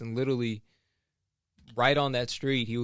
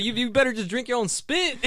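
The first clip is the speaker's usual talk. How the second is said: higher, louder scolding retort; mock scolding; 12 semitones higher, 5 dB louder than usual. Attendant scolding a customer, mock angry. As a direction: scold him, half laughing.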